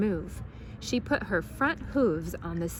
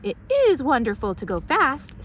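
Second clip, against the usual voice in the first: put-on high, louder, delighted old lady; a gleeful lady in the back seat; Baby cheering from the back seat; Baby's voice; 7 semitones higher, 6 dB louder than usual. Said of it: "This is Baby".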